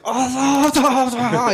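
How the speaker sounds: high, hammed-up Asian accent; a mocking Asian accent impression. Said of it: "if you were Chinese and I was like".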